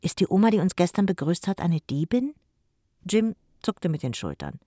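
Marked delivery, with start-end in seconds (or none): 0.0-2.3 put-on worried child. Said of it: "fragte ehrlich besorgt".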